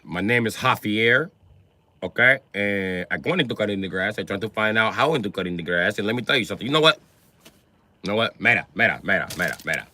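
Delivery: low-pitched mock Mexican accent; Mexican worker. Worker corrects boss and talks terms, low Mexican accent. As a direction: play a landscaper explaining himself in a Mexican accent. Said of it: "The S A was like".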